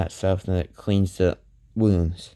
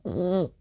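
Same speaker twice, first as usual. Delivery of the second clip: high pained hum; 11 semitones higher than usual. Acted. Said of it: "she goes like".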